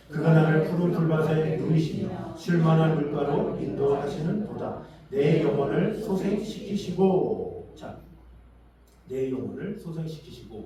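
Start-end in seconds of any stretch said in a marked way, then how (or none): 0.1-4.8 slow, loud congregational reading; scripture recitation. Real, not acted. Preacher reading psalm with congregation, loud slow recitation. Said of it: "같이 한번 읽겠습니다". 5.1-7.7 loud, very drawn-out verse reading; scripture recitation. Real, not acted. Preacher leading congregation in psalm, loud slow recitation. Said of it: "같이 한번 읽겠습니다".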